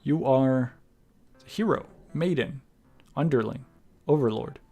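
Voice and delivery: measured dramatic narration, phrase by phrase; deliberate storyteller delivery with pauses; story narration. A narrator's reading. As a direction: read the game's ending like a storyteller. Reads the game's closing narration.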